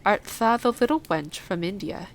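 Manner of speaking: a hint of gruff country dialect; lightly voiced old Yorkshire gardener. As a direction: lightly play the blunt gardener, curious.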